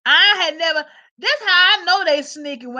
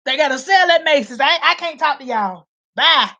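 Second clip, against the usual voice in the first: hasty widow. Retold or imitated. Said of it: "they be at Neiman Marcus".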